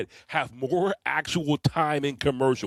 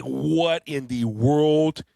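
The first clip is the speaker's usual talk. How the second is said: slow baffled exclamation; surprised; 3 semitones higher, 4 dB louder, much slower than usual. Retold or imitated. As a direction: drag it out in disbelief. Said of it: "And I'm like".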